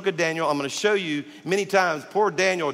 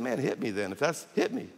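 quiet dare; 3 semitones lower, 5 dB quieter than usual. Retold or imitated. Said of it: "And I said".

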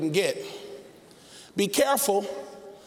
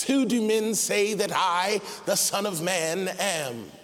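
movie Jesus voice; slower than usual. Acted. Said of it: "I don't know if he sounded like that, but that's how he sounds in the movies".

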